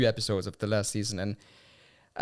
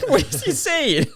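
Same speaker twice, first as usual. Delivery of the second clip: much higher, louder, bewildered question; baffled journalist; 13 semitones higher, 6 dB louder than usual. Retold or imitated. Host retelling a viral clip, voicing the confused UK journalist, high and bewildered. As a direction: play the lost interviewer who can't follow a word.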